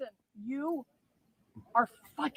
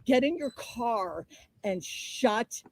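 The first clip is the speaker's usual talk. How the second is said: slow, forceful furious command; erratic rage; 2 semitones lower, 3 dB louder, slower than usual. Real, not acted. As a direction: spell it out slowly, seething. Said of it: "you wanna see erratic?".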